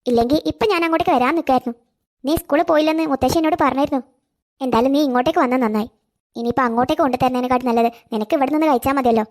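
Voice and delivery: put-on a fond elderly neighbour, coaxing; kindly old neighbour woman. Neighbour invites child to eat. (സ്നേഹമുള്ള പ്രായമായ അയൽക്കാരി, താഴ്ന്ന ശബ്ദത്തിൽ)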